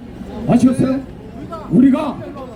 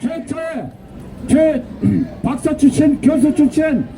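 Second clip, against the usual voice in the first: shrill echoing propaganda broadcast; 3 semitones higher than usual. Real, not acted. Rally chant leader.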